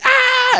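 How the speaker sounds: high shriek of a man shot in the back; mock pained scream. Retelling a trailer, a man shot with a crossbow lets out a high scream. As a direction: yelp like you've just been hit by an arrow. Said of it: "And he's like".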